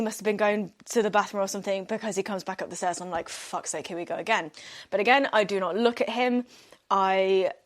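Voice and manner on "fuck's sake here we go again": muttered exasperation. Retold or imitated. Ex comes back up stairs.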